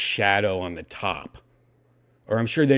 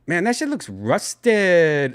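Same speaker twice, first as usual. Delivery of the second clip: put-on Latino accent; 6 semitones higher, 3 dB louder, slower than usual. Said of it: "I sounded very Latino".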